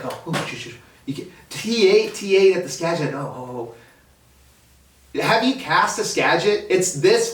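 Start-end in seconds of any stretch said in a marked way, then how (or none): 0.0-3.7 mock freakout. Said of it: "everybody freaks out".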